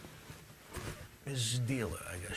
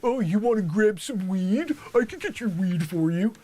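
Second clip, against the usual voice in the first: mock eager LA dealer; 14 semitones higher, 15 dB louder than usual. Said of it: "they're like".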